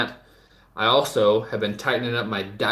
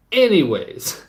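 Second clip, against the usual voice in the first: higher and louder, pushing back in; emphatic restart; 8 semitones higher, 5 dB louder, slower than usual. Real, not acted. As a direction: reclaim the floor loudly.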